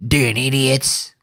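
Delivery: drawn-out parody of the preacher; slow mock echo of the preacher. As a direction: stretch it slowly in mockery. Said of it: "Damn idiots".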